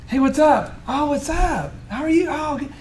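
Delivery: mock the empty greeting lightly; chit chat. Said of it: "it's little like".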